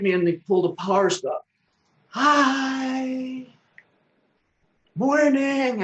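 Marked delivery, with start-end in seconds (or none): 2.1-5.8 high, bright mimic of a little kid; imitating the neighbour kids greeting him; child's voice. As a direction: pipe it like a tiny kid on a tricycle. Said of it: "little tiny kids' voices".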